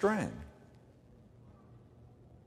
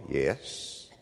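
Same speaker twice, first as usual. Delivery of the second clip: put-on French accent; 12 semitones lower, 8 dB quieter than usual. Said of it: "had a French accent".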